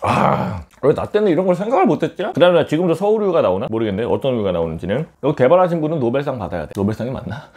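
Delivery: chewing while talking; speaking between bites; mouth full of noodles. Real, not acted. Seen 1: Slurps noodles at -1.0, then talks with pursed, working lips.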